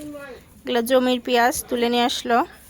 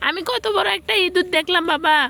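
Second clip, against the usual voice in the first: excited telling; 6 semitones higher than usual. Real, not acted. Excitedly telling about rat.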